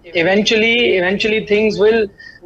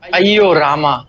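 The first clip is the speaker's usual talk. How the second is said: ayyo wail; 4 semitones lower, much slower than usual. Acted. Mock lament over being blocked.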